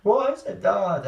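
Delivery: high, loud scared scream; screaming daughter. Retold or imitated. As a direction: shriek at her dad in panic. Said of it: "I just heard his daughter screaming".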